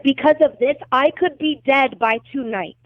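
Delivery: retold alarmed protest. Woman retelling her protest to the detective after the accidental release, indignant. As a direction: throw the blame back, retelling it.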